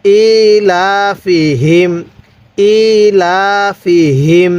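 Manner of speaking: very slow "ilafihim", vowels held; measured, repeated teaching recitation; model Quran recitation. Shown as a demonstration. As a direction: stretch "i" and "la" for learners. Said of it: "এরকমভাবে শিখব".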